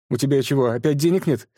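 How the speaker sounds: выше, с упрёком; раздражённо спросить; недовольно. A narrator's reading. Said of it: "недовольно спросила Лена". (подруга недовольна просьбой)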